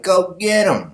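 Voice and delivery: high, eager egging-on; cheering mermaid girl. Acted. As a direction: urge him on in a high girl's voice.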